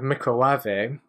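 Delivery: "microwave" said as mee-cro-WAH-vay; Nigella's pronunciation. Retold or imitated. Likening a name to Nigella's word, Nigella's pronunciation. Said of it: "the way that she says microwave is microwave".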